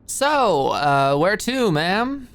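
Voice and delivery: mock-formal chauffeur. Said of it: "Alicia's odd pronunciation".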